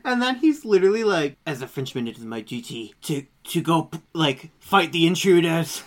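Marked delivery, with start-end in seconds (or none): 1.5-5.8 halting attempt at a French accent; badly faked French accent. Grandpa vows to fight intruders, badly faked French accent. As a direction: try a French accent and half fail. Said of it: "I can't do a French accent".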